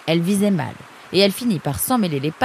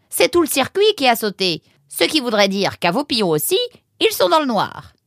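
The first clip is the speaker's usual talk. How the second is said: higher and louder, worry building; mounting alarm; 8 semitones higher, 6 dB louder than usual. Acted. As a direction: work yourself up over the outage. Alarmed about the power failure.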